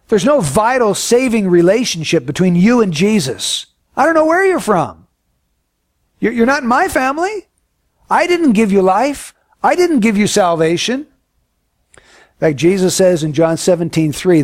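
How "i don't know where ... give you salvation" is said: much higher, pleading intensity; high, urgent voice of Christ; impassioned Christ. Acted. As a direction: lift the voice high as Christ disowns them. Preacher voices Christ, rising intensity.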